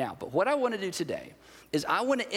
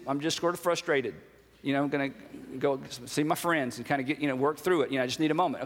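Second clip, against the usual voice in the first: low, halting mumble of an impression; evasive guy, acted; 5 semitones lower than usual. Guy avoiding his emotions asks for space, low and evasive. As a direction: lower the voice and dodge the feeling with pauses.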